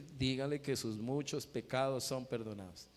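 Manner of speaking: lightly acted repeated instruction in one run; voice of the Lord. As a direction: restate it evenly without pauses. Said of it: "el Señor le dijo".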